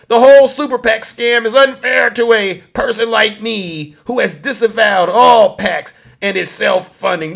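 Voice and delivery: loud mocking take on a politician; Donald Trump. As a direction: read out his words in a lightly put-on voice. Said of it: "the same guy that talks like this".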